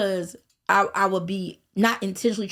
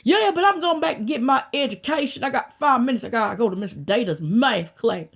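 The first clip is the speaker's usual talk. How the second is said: innocent excuse; 4 semitones higher than usual. Retold or imitated. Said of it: "her retold reply to cops".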